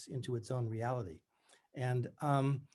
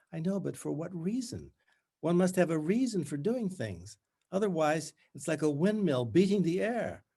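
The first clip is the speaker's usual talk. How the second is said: strangulated bright voice; 4 semitones higher than usual. Acted. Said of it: "In her strangulated voice".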